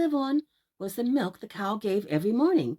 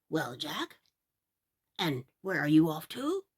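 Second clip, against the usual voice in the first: put-on old man; 4 semitones lower than usual. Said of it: "said the man".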